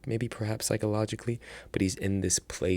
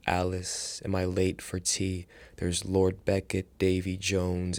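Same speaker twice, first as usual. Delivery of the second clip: measured, even spoken-word poem; poetry recitation. Acted. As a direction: recite the verses in steady, rhythmic phrases. Reads own poem aloud.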